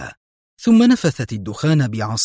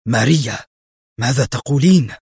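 a lightly raised, shocked protest; indignant cry; 3 dB louder than usual. Acted. Pedro protests to Maria in disbelief, mildly louder. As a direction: object in disbelief, a touch louder. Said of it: "وصاح مستنكرا".

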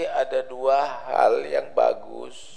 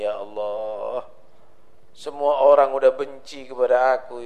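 tearful prayer; 2 semitones lower than usual. Retold or imitated. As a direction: plead to God in a hushed, broken voice. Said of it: "sholat menghadap kepada Allah sambil menangis".

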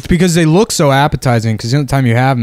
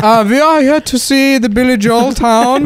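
put-on German accent; 13 semitones higher than usual. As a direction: play a German tourist gushing. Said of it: "pretend to be German tourists".

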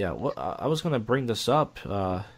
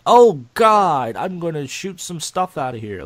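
loud climax cry; 5 semitones higher, 7 dB louder, slower than usual. Shown as a demonstration. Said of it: "or do you say it like".

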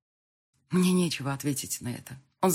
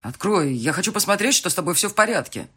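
loud, raised voice through a door; calling through door; 4 semitones higher, 7 dB louder than usual. Acted. Fiancé knocking, calling loudly through the door. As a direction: call in from outside.

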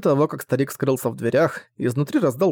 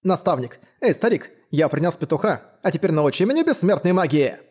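excited; 3 semitones higher than usual. Acted. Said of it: "радостно сообщил".

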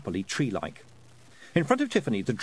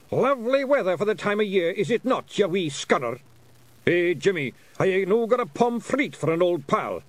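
much higher, louder mock-genteel Scots shout; polite scream; 8 semitones higher, 5 dB louder than usual. Feegles shouting small talk at a posh ball. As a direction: yell your small talk like a wee brawler. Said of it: "you screamed politely".

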